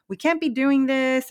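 mock telling-off; pissed-off cop. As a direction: imitate an irritated cop, mildly. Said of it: "cop is really pissed off".

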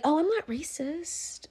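small, high, soft nervous denial; mock terrified. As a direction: imitate someone squirming, slowly and quietly. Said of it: "Fidgeting, like, fucking terrified".

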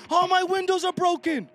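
uncle's dismay. Retold or imitated. Uncle voiced in story.

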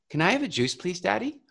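put-on soft, sweet little girl asking nicely; sweet polite ask. Daughter asking father politely for juice, sweetly. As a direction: ask nicely like a good kid. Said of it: "And she goes".

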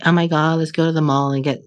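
put-on a light, playful Valley Girl accent with a laugh. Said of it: "I always do that Valley Girl accent".

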